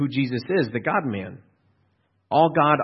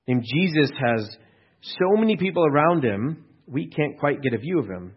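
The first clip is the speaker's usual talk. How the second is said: usual speaking voice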